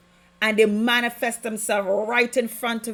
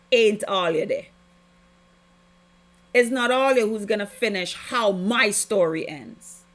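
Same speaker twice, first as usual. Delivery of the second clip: militant rebuke. Retold or imitated. Preacher rebuking the demons and energies, militant. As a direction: rebuke them like you own the room. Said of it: "I got militant".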